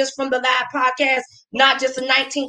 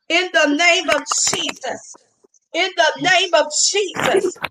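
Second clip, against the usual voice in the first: laying a curse; 2 semitones higher than usual. Real, not acted. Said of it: "I curse you to the root right now".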